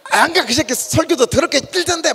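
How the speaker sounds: high, curt Gyeongsang dialect refusal; blunt Gyeongsang dialect. Retold or imitated. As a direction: snap it back in Gyeongsang dialect. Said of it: "막 이렇게 경상도 같으면 팍!". (경상도 사투리로 퉁명스럽게)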